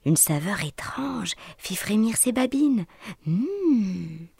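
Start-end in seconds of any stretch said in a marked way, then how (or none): 3.3-4.3 savouring hum. A narrator's reading. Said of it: "savoura-t-il".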